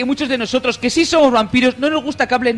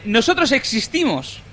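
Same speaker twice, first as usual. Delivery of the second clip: dramatic vampire reading; 2 semitones higher, slower than usual. Retold or imitated.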